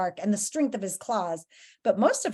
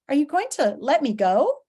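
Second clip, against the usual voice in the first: higher, hopeful question; timid murmur; 5 semitones higher, 4 dB louder than usual. Acted. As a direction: ask meekly to be freed. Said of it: "he murmured".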